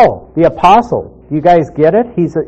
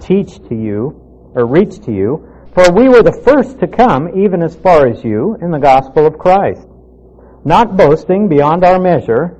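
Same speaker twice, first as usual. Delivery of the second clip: measured, formal Bible reading; steady public reading of an epistle; scripture reading. Acted. Reads scripture passage aloud.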